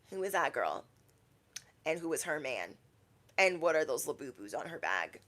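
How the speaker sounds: low, soft nosy muttering; hushed onlooker. Acted. Self-checkout shoppers asking about a girl, hushed. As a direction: murmur it aside, checking someone out.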